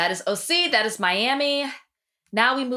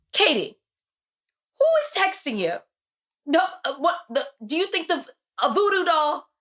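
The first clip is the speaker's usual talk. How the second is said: incredulous; 8 semitones higher than usual. Real, not acted. Incredulous rant at Katie's behavior.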